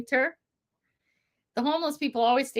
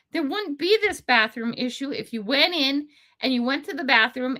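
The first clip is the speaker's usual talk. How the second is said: a mild scolding lecture, a touch higher; lecturing; 4 semitones higher than usual. Retold or imitated. Vlogger imagining a lecture to the homeless and addicts, mild scold. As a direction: lay down the law to them. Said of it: "put 'em together and say".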